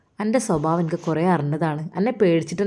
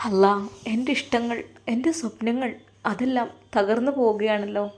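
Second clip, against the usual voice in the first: sad lament; 3 semitones higher than usual. Acted. Son laments lost love alone.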